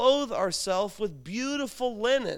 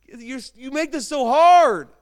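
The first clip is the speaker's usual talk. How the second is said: loud, exasperated complaint at grandma; exasperated outburst; 5 semitones higher, 12 dB louder than usual. Retold or imitated. Grandson protesting to grandma, exasperated loud whine. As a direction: throw up your hands and groan it out. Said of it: "I'd say".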